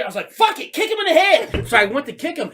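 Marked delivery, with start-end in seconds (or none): 0.3-1.7 high, loud pumped-up yell; mock battle cry. Retelling his urge to kick the groundhog, a high pumped-up yell. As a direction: psych yourself up to attack.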